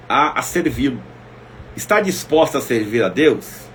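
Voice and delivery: usual speaking voice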